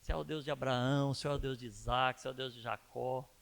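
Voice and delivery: lightly voiced worshipper lifting up God; imitated reverent prayer. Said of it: "Eu vejo eles chegando em Deus e falando".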